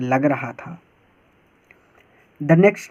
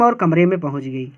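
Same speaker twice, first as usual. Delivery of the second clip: read aloud quickly; 2 semitones lower, much faster than usual. Shown as a demonstration. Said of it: "तो अब इसको ऐसे ही पढ़ना है".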